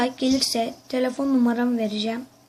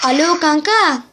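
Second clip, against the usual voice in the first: heyecanlı arama; 3 semitones higher, 4 dB louder than usual. Acted. Telefon şakası başlıyor.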